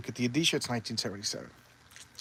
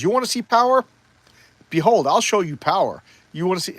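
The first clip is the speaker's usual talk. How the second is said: loud, grandiose challenge; hammed-up god showing off his might; Thor; 5 semitones higher, 5 dB louder than usual. Thor's showy challenge to his foe.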